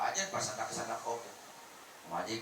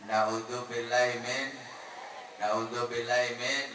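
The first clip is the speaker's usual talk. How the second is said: slow pious exclamation; 5 dB louder, slower than usual. Real, not acted.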